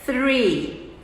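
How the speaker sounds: "Three" com a língua entre os dentes. Shown as a demonstration. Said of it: "Repete aí pra você aprender comigo". ("Three" com th soprado entre os dentes)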